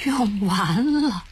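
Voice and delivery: slow, hollow whispered echo; bleak whisper. Acted. Jiaqiao repeats in despair, barely breathing. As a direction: let the words drain out of you. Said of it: "凄惨地重复了一句".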